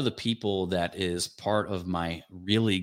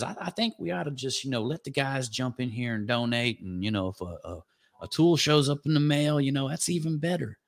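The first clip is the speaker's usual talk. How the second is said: Southern drawl; 2 semitones higher than usual. Retold or imitated. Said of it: "he says that all in a Southern drawl".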